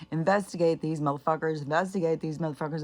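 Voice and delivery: mock rallying demand. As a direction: push it out like a protest call. Acting out her hashtag call.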